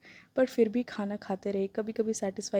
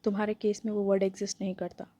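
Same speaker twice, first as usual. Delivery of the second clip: deadpan. Acted. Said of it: "डेडपन में बोला".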